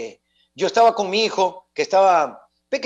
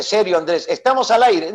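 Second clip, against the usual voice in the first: mildly urgent retold warning; a touch of urgency, insisting; serious warning. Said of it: "me dice". (advertencia seria, apenas marcada)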